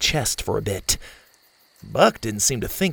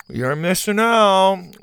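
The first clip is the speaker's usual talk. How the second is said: put-on lightly raised girl voice; a hint of a spunky girl; Zeta girl voice; 9 semitones higher, 4 dB louder, slower than usual.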